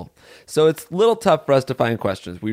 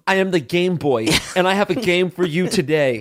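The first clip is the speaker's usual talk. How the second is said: raised, announcer-like character voice; pitched-up silly game host; Game Boy voice; 5 semitones higher than usual. Pretend. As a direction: play a goofy game-show host persona. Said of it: "a specific way of talking that the Game Boy has".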